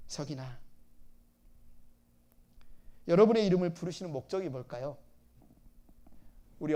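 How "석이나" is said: tender call. Shown as a demonstration. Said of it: "여러분 자신의 이름 한번 불러보실래요".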